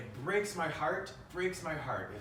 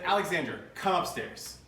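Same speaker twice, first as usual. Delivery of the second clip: calling out; 5 semitones higher, 4 dB louder than usual. Retold or imitated. Father summons accused daughter upstairs.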